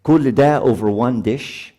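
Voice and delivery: baffled husband complaining, drawn out; exasperated husband. Retold or imitated. Husband protesting his wife's anger over one dish, exasperated. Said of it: "And he says".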